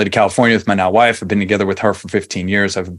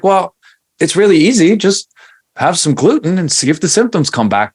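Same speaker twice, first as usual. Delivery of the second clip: mock exasperated; 9 semitones higher, 3 dB louder than usual. Husband retelling dare to skeptical wife.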